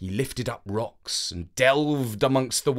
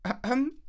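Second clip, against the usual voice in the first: mock throat clear; 11 semitones higher, 5 dB quieter than usual. A narrator's reading. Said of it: "she said".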